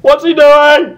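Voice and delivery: alarmed. Acted. Twilight asking in a loud, high, mock-panicked voice what he is doing. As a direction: squeak it out in mock horror.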